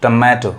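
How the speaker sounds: टोमेटो with a neutral first vowel; teacher repeats टोमेटो starting on "tuh", not "to"; corrected tomato. Shown as a demonstration. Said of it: "क्या होता है".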